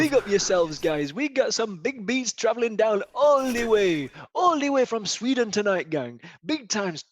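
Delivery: hyped club DJ shout-outs; DJ announcer voice. Pretend. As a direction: hype the crowd like a club DJ. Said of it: "it's me announcer voice".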